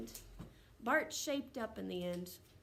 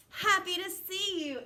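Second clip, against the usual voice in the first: higher, louder, bursting with joy; excited exclamation; 8 semitones higher, 8 dB louder than usual. Shown as a demonstration. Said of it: "it makes it more exciting".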